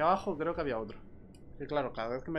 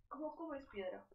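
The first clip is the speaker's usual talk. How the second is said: squeaky creature voice; 10 semitones higher, 14 dB quieter than usual. Acted. Voices a mob asking.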